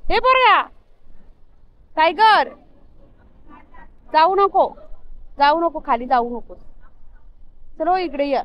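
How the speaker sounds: high, loud, affectionate calling; calling the dogs. Real, not acted. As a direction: call out to the pets and stop him going down. Calling to dogs, warning Tiger.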